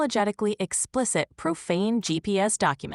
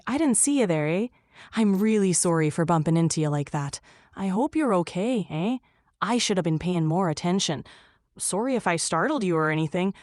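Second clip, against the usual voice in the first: profusely sorry Canadian, quick and eager; apologetic Canadian accent; 2 semitones lower, 3 dB quieter, faster than usual. Acted. Canadian who bumped into somebody, overly apologetic accent. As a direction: apologize over and over like a polite Canadian. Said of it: "best impression of an overly apologetic Canadian".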